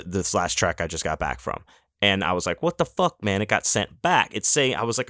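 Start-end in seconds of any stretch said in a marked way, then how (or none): 2.6-4.3 mock outrage. Outraged at package returned.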